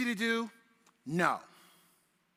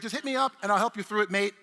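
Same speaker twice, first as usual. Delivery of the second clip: lightly mimicked British accent; 3 dB louder than usual. Presenter quoting his British helper, in a light British accent. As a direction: quote him in a quick, slight British accent. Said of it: "in his British accent".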